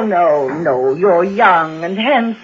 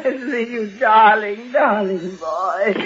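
relieved; 4 dB quieter, slower than usual. Acted. Relief at seeing nephew.

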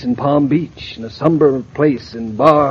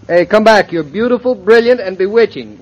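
coaxing; 9 semitones higher, 4 dB louder than usual. Acted. Husband coaxing wife back.

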